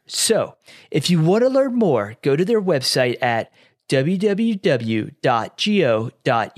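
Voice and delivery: measured podcast sponsor read. Real, not acted. Host plugging a military college, measured ad read.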